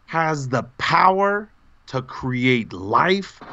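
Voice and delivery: slow, drawn-out grand announcement; mock grand. Real, not acted. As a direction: make it sound epic and slow. Dramatic tribute to fan.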